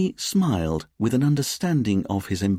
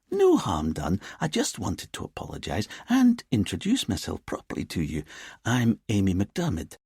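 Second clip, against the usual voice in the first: put-on lilting Edinburgh accent. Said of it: "in her lilting Edinburgh accent".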